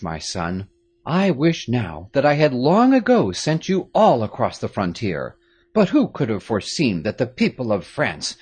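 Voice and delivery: a grave father giving orders, a touch of urgency; Marquis, grave father. A narrator's reading.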